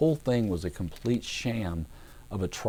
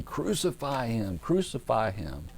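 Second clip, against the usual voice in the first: mock crowd yell; 3 semitones higher, slower than usual. Preacher imitating the crowd before Pilate, slow mock yell. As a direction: chant it slowly, like a restrained mob. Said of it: "they start yelling".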